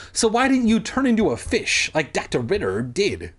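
mildly demanding query; demanded. Acted. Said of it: "she demanded".

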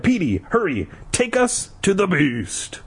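high, urgent plea, stretched at the end; hammed-up urging; urgent cry. A narrator's reading. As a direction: urge them on in a high voice. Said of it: "Ashley cried".

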